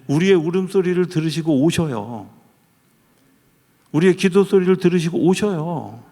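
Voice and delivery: high, loud fervent preaching; full-force preaching. Acted. Pastor proclaiming God hears crying prayers, loud fervent preaching. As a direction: proclaim it like a revival pulpit.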